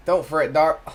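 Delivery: a hint of a Southern woman's reassurance; gentle Southern accent. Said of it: "oh, she has a country accent".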